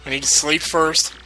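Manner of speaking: put-on light Italian accent as Luigi; a lightly voiced Italian plumber. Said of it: "now I got this whole Luigi thing to do".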